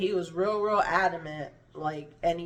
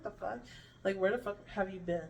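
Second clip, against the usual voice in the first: laughing disbelief; 2 semitones higher, 6 dB quieter than usual. Retold or imitated. Her retold reaction, laughing.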